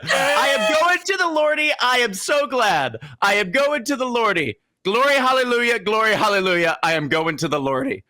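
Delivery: put-on high sing-song childlike falsetto; child falsetto. Shown as a demonstration. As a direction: croon it like a child at church. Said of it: "he did it in a high-pitched child falsetto".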